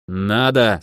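«Надо» said with mild pressure; emphatic. A narrator's reading. Dennis insists they must fly, «Надо» with pressure. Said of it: "с нажимом произнёс Деннис".

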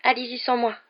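high, hesitant little voice; small high voice. A narrator's reading. Hermione answers the boys from her cabin, small and high-pitched. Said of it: "répondit une petite voix aiguë".

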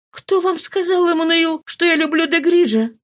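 frightened wife begging her husband; Marie, pleading. A narrator's reading. Marie's voice in the reading.

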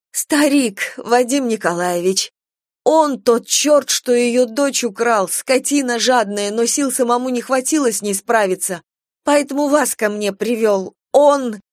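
high, loud hysterical laughing breaking toward sobs; hysterical laughter into sobs. Acted. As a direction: laugh hysterically, then crack into crying. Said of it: "Сквозь ладони слышался истеричный смех".

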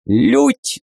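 very high squawking bird; parrot squawk. Acted. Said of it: "гаркнул попугай".

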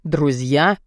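low, lightly growled man's voice; Adam lightly growling his question; mild growl. Acted. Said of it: "зарычал Адам".

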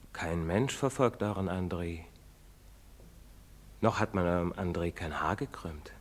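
soft reassuring whisper; whispered comfort. Acted. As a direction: hush it, just breath.

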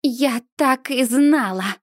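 slow, triumphant mock shout; triumphant yell. A narrator's reading. Lucy triumphantly yelling at the heroine before the guests. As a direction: gloat it out slowly. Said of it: "победоносно во всё горло орёт Люси".

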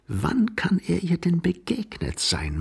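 slow, whispered murmur to himself; agitated murmur. A narrator's reading. Young man under the bed murmuring to himself, agitated murmur. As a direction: murmur it under your breath, worried. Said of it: "murmelte der junge Mann vor sich hin, offenbar in größter Aufregung".

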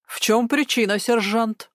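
put-on sternness. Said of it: "С нарочитой суровостью".

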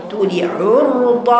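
عرضة slow in two parts; split syllables. Shown as a demonstration. Teacher breaking the hard word apart, slowly. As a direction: say عر then ضة. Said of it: "الراء فيها توسط".

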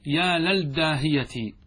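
يا للداهية with the lam said la, open vowel; drawn out slowly, stressing la in للداهية; يا للداهية: لام مفتوحة، ببطء. Shown as a demonstration. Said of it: "تفتح اللام".

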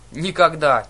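loud, emphatic cry; shouted refusal. A narrator's reading. Driver sister refusing the boy, shouted. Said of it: "крикнула Тревога".

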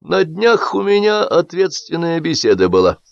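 veiled significance. A narrator's reading. Boss hinting at an important conversation, meaningful. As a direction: let a veiled threat show. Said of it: "наполняя слова затаённым смыслом".

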